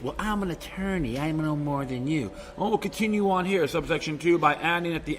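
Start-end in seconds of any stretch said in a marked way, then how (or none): 0.0-2.3 mocking a know-it-all lawyer; sneering, superior lawyer voice; smug lawyer. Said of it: "this is how clever he is".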